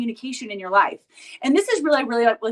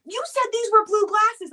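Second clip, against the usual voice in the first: higher, slow indignant accusation; slow mock outrage, pitched up; mimicking angry stepdad; 8 semitones higher than usual. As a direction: play the stepdad's accusing complaint. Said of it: "And he's so angry".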